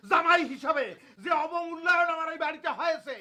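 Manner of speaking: indignant, carrying protest; shouting complaint. Acted. Son-in-law complains to wife of being undervalued, shouting. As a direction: rant for the whole house to hear. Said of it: "এরকম চিৎকার চেঁচামেচি করছে".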